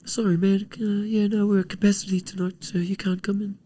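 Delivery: put-on gentle nightclub bouncer with a Polynesian accent refusing entry. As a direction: turn him away kindly with a Polynesian accent. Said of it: "with the Polynesian accent".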